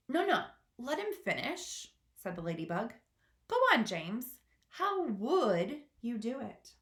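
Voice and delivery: high, coaxing ladybug. Acted. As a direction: urge him on kindly. Ladybug coaxes James.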